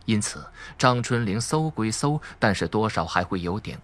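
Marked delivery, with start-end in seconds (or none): none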